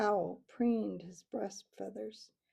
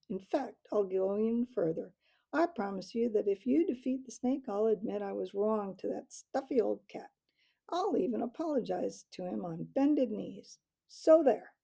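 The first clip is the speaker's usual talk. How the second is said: chortling; 4 dB louder than usual. Acted. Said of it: "chortled the owl".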